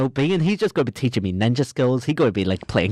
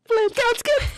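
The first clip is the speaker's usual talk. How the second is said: high mock-casual line after the kill; high, smug playing-cards line; cool killer voice; slower than usual. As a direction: toss it off like a smug hitman. Killer sits back down coolly.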